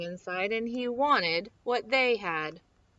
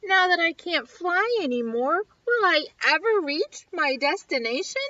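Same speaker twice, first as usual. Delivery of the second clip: louder, frustrated cry out; a little bee venting frustration, loud; 6 semitones higher, 7 dB louder than usual. Acted. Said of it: "cried out in frustration".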